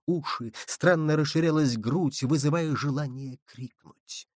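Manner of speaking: ordinary delivery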